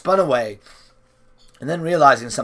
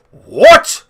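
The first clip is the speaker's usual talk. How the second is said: weakly asked; 12 semitones higher, 11 dB louder than usual. A narrator's reading. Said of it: "the old man asked weakly".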